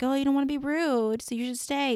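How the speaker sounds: inner critic. Retold or imitated. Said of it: "it was the inner critic".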